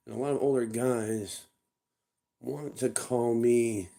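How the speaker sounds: loose, tipsy rambling. Real, not acted. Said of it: "Sorry, I'm a little tipsy".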